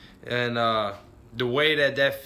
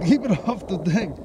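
higher, louder excited order; urgent call; 6 semitones higher, 4 dB louder than usual. Real, not acted. Angler warning his partner mid-fight, high excited call. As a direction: snap the order out fast in the heat of it.

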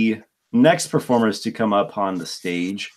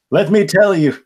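goblin voice; 9 semitones higher, 6 dB louder than usual. Acted. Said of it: "I'm gonna try to do this in the goblin voice".

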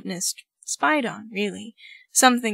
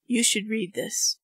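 dead voice. Acted. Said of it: "he says in a dead voice".

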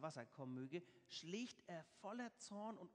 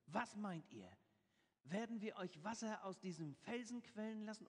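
somewhat raised, higher challenging question; calling out, challenging; 4 semitones higher than usual. Acted. Moses challenges the people before the rock, calling out. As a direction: throw the question out to the crowd. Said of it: "rief Mose".

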